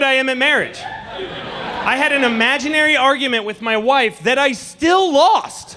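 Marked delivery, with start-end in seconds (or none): 4.4-5.8 laughing punchline. Real, not acted. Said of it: "punchline laugh".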